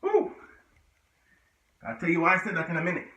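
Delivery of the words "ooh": short high "ooh" of exertion; effort whoop. Real, not acted. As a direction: let out a high puff of effort. Straining through a hard push-up.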